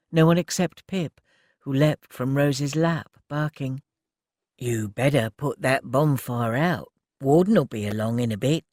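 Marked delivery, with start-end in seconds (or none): 4.6-8.6 a calm warning from the shadows; gruff young man. Acted. Ted warns from the dark.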